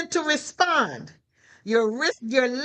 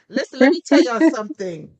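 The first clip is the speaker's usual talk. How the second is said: loud call out; 7 dB louder than usual. Real, not acted. Excited call to congregation.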